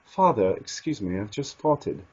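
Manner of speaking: understated mock British accent, straight-faced; soft, low-key British delivery without laughing. Shown as a demonstration. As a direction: say it in a lightly put-on British accent. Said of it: "do it with a British accent".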